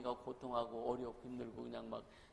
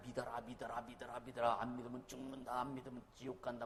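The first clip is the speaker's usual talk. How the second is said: pleading; 4 semitones lower, 3 dB quieter than usual. Retold or imitated. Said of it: "꼭 하나님 우리에게 사정하시듯이".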